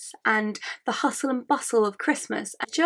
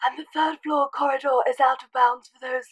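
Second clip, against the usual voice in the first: a lightly voiced wise old headmaster, a bit raised; Dumbledore impression; 3 semitones higher than usual. Sick vlogger's hoarse headmaster warning. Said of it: "banging Dumbledore impression".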